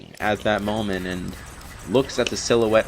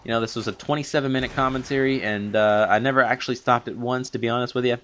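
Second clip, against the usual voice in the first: out of breath; faster than usual. Real, not acted. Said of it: "sort of running out of breath now".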